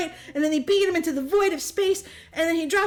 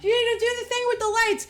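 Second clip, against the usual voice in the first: higher, louder bossy call; rally the team like a hero; mock hero command; 8 semitones higher, 3 dB louder than usual. Jack tells his team to signal, in a mock heroic call.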